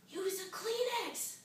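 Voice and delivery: insist, stretching it out slowly; frantic demand. Acted. Acted frantic demand to helper.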